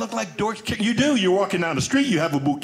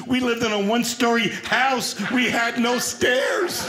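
higher, slow indignant shout; indignant punchline; 5 semitones higher, slower than usual. Real, not acted. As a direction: hammer home the injustice. Punchline about slinky.

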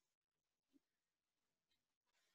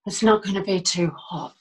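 low, measured, with long pauses; calm recollection; 7 semitones lower than usual. Acted. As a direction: recall a hopeful morning calmly, unhurried. Monologue opening, recalling a hopeful morning.

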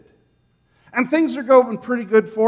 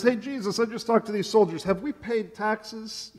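sheepish hush; 2 semitones higher, 7 dB quieter than usual. Acted. Peter sheepishly asking Jesus.

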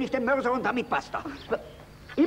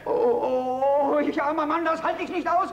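lament; 6 semitones higher than usual. Acted. Peasant lamenting punishment.

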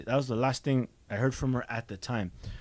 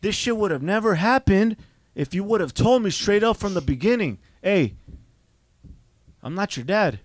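loud, higher furious outburst; retold angry rant; 3 semitones higher, 5 dB louder than usual. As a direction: unload on him, furious.

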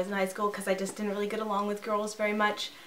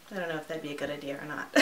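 laughing; 5 semitones lower, much faster than usual. Real, not acted. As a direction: giggle through it, trailing off. Laughing at her own idea.

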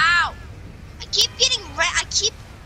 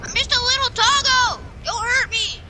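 cartoon dog; 8 semitones higher, 4 dB louder than usual. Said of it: "yeah, a cat".

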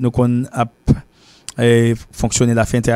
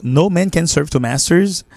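higher, slow English proverb; raised model reading; 5 semitones higher than usual. Shown as a demonstration. Teacher restating the proverb, higher and slower. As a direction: lift it up and say it for the class. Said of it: "Ok, so".

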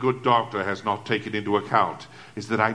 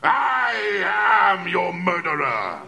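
furious shout; 7 semitones higher, slower than usual. Acted. Killer screaming his confession at the slow inspector. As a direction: explode at his stupidity.

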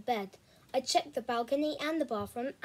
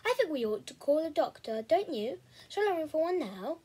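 fussy sister voice; 4 semitones higher than usual. Acted. Becky fussing, voiced sister.

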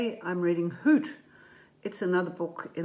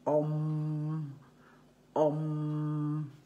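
frogmouth call. Retold or imitated. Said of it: "and he goes".

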